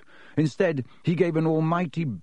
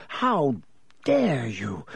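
shriek; much slower than usual. A narrator's reading. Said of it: "Alicia shrieked".

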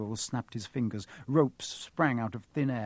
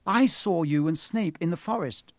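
louder, higher outburst; sudden, urgent interruption; blurted out; 5 semitones higher, 5 dB louder than usual. A narrator's reading. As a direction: blurt it out to distract him. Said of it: "he blurted out".

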